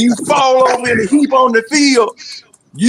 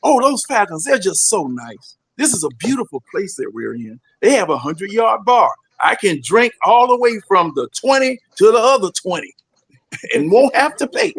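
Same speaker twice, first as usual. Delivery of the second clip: mock commissioner voice; 4 semitones lower than usual. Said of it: "commissioner ... watching this doggone mess".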